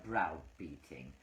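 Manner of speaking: slow, mocking echo of browbeating; drawn-out mock of browbeating; mocking repeat. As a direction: drag out browbeating to mock the word. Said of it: "You use such heavy words".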